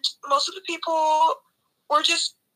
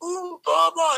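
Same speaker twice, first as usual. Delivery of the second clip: higher, mocking self-important voice; mocking Cara; 4 semitones higher than usual. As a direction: parody her smugness. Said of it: "she's always like".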